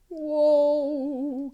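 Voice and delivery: big wow. Acted. Reacting to beanstalk picture.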